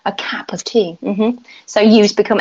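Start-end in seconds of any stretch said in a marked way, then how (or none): 0.1-1.0 "cap" for cup, with an open London A; London-style "cap", vowel opened to A. Shown as a demonstration. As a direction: say "cap" with the U turned to A. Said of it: "pronounce their U's as A's".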